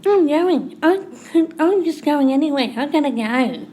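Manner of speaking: husband brushing off his upset wife, mock-abrasive. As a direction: snap it back like an irritated husband. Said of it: "Charlie then gets abrasive".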